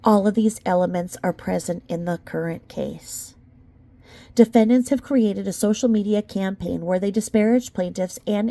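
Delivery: measured, even legal read; steady courtroom-brief reading voice; formal document reading. Acted. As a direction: read it like a lawyer's filing. Reading the legal complaint aloud.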